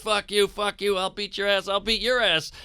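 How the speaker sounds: high, airy nonthreatening trash talk; mock trash talk. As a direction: bluster without menace. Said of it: "I'm just going".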